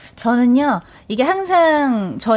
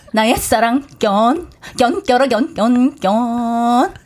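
Anseong housewife impression; slower than usual. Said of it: "안성댁 그 분 한 이렇게 개인기인데 살짝 해볼게요".

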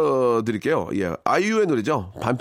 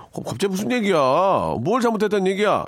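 raised-pitch indignant demo; angry comeback; 8 semitones higher than usual. Shown as a demonstration. Husband deflecting his wife's question, mock angry. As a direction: act affronted, pushing the pitch high. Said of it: "당황하지 않고 화를 더 내야 됩니다".

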